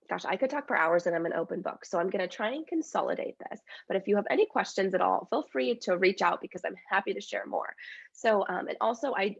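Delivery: stuffy, congested voice; talking through a head cold; blocked nose. Real, not acted. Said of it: "I'm a little congested. I have a cold".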